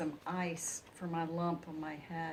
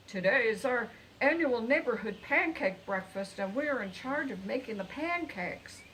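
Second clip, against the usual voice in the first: louder, quick blurt; 4 semitones higher, 6 dB louder than usual. A narrator's reading. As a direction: blurt it out in a rush. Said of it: "blurted out".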